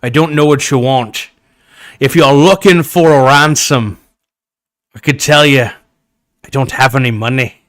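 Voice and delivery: hammed-up Sean Connery accent menace; Sean Connery impression. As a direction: boom it out like Sean Connery on the phone. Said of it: "so I'm doing this as, as Sean Connery".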